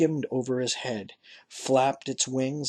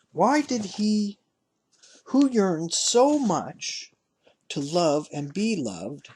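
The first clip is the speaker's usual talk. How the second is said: slow, higher, aching questions; anguished questioning; 5 semitones higher, slower than usual. A narrator's reading. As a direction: plead it slowly.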